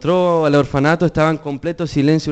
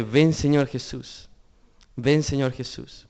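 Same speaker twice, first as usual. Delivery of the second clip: slow, softer prayerful plea to Jesus; soft pleading cry; 6 dB quieter, slower than usual. Retold or imitated. Preacher voicing the church's cry to Jesus, soft and slow. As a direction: murmur it as a yearning prayer. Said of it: "es el clamor de".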